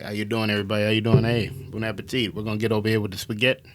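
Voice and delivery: lightly voiced Italian-American wiseguy accent; mock Italian accent. Auditioning as an Italian chef greeting diners, mock Italian accent. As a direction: put on a casual, hammed-up Italian accent. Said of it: "let's hear your Italian accent".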